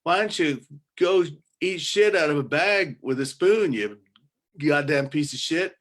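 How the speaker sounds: loud, high-pitched insults shouted from the porch; mock yell at passersby. Porch dweller yelling abuse at people walking by, loud shout. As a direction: bellow it at strangers down the street. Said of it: "and you just yell".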